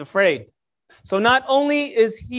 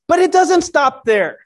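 excited salesman pitch; infomercial voice; 4 semitones higher, 5 dB louder than usual. Acted. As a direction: sell it like a TV infomercial. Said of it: "I sound like an infomercial".

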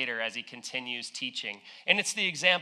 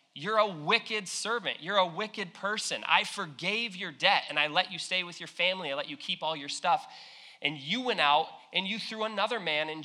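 a touch of an outraged master; upset master; 4 semitones higher than usual. Acted. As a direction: scold the servant in disbelief. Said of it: "the master gets upset by this".

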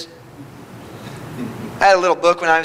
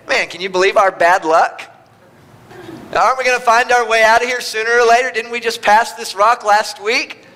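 grumbling wanderer; 4 semitones higher than usual. Acted. Wandering Israelite griping to his buddy, mildly exasperated. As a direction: gripe to your buddy about the bad luck.

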